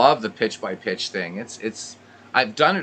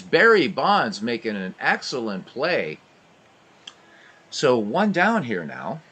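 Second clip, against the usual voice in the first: brisk radio ballgame call; live baseball commentary voice; play-by-play. Acted. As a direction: call every pitch like a radio announcer.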